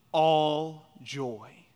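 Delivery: ALL drawn out and set apart before "joy"; stress on ALL. Shown as a demonstration. Preacher quoting the verse to his congregation, stress on ALL. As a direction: lean on "all", then land on "joy". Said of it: "the word all here is a word that intensifies".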